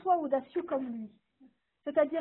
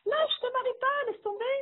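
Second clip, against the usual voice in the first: discouraging voice; 9 semitones higher than usual. Retold or imitated. Quoting those who say give up.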